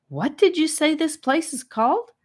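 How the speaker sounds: high, breathless wonder. A narrator's reading. Charlie, amazed by the new world, asks breathlessly. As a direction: ask it out of breath with awe. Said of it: "asked Charlie breathlessly".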